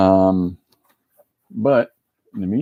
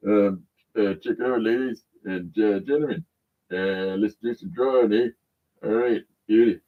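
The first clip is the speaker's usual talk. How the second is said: Corbin. Pretend. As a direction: play the cat as a drawling Canadian host. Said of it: "That's Corbin for you".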